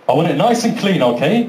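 lightly voiced referee, even and level; matter-of-fact referee. Referee instructing two boxers before the fight, matter-of-fact. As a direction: lay down the rule evenly.

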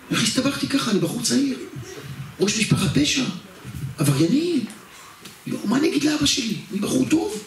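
high-pitched frightened lament; high whiny panic about telling his father; panicked whining. Retold or imitated. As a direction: whine like a scared good boy. Panicking about the crime family.

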